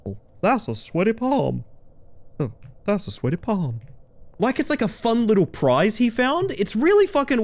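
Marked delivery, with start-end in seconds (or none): 0.1-3.8 lightly voiced Southern county lawyer. A lawyer guy shaking people's hands, lightly Southern. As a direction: mildly put on a Southern lawyer's accent. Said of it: "Southern County lawyer guy".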